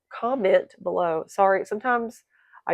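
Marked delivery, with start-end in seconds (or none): 0.1-1.2 slowed down, said again clearly; slower repeat. Shown as a demonstration. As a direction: repeat it slowly so it lands. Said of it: "slow down or repeat myself".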